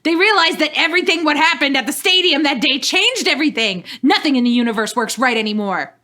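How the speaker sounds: shouting. Acted. Dawn explains to Ash mid-battle, shouting. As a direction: push it out high and urgent, as if over gunfire. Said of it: "Dawn shouted at him".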